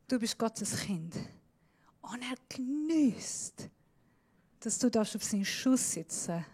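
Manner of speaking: whispered reassurance to the congregation. Shown as a demonstration. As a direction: whisper it reverently. Preacher whispers God's love.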